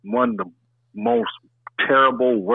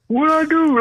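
laughing; 13 semitones higher than usual. Real, not acted. Says it while laughing.

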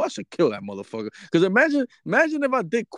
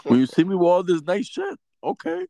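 mocking a bragger; 9 semitones higher than usual. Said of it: "talking about".

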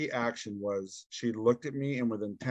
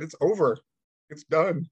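higher and louder, insisting; louder insistent repeat; 4 semitones higher, 4 dB louder than usual. Retold or imitated. Repeating to his stunned son that it's over, louder. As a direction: say it again with more force so they finally get it. Repeating the news when asked again.

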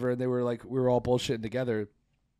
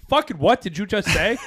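louder, laughing, baffled; half-laugh at a nonsense phrase; laughing disbelief; 7 semitones higher, 7 dB louder than usual. Retold or imitated. Retold baffled reply.

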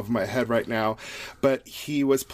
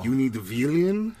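Russian accent. Shown as a demonstration. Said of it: "it's really good to say villain".

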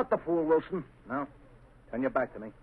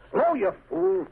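sharp barked command, louder; angry order; 5 semitones higher, 4 dB louder, slower than usual. Acted. Villain snapping at his henchman in the dark, angry. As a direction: snap at the clumsy henchman.

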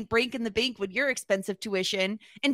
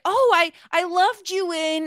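fawning; 6 semitones higher, 3 dB louder, slower than usual. Retold or imitated. Dean fawning over Guzman.

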